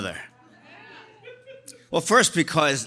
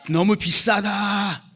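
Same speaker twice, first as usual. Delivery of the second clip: quick, higher Korean haggle; 너무 비싸다 said fast and high like a bargaining mother; haggling mom in Korean; 6 semitones higher, 3 dB louder, faster than usual. Retold or imitated. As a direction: fire it off like a mom bargaining hard. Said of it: "She would haggle in Korean".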